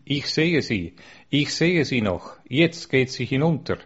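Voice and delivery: understated cry of delight, lifted in pitch; joyful cry. Acted. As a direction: call it out happily without shouting. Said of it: "Sie schrie voll Freude".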